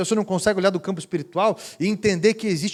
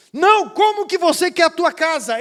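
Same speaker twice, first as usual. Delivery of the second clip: louder, higher insistent question; insistent call; 10 semitones higher, 6 dB louder than usual. Retold or imitated. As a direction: keep pressing her, loudly. Pastor insists.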